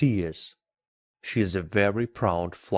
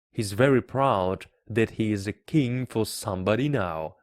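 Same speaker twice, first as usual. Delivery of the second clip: usual speaking voice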